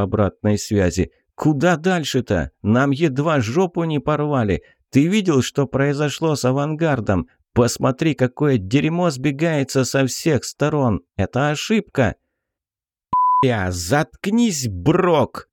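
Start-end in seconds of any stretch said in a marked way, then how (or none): 1.3-12.2 high, agitated objection; angry protest. Acted. Soldier protests over the radio. 13.4-15.5 high, slow, angry cut-off; fierce retort. Acted. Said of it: "рьяно отрезал Жирный".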